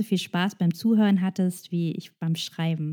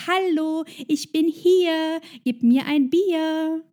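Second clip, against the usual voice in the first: higher, slow calling out over the crowd; mock yell for a beer, pitched up; shouting up; 7 semitones higher, slower than usual. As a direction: yell up to the barman, arm raised.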